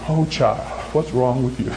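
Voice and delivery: low, gentle mock chiding; loving reproach. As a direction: play God tenderly chiding a child. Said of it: "in a loving voice".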